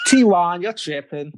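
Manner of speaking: slangy put-on American accent; British speaker playing American, amused. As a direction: toss it off in mock American. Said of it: "in your best American accent".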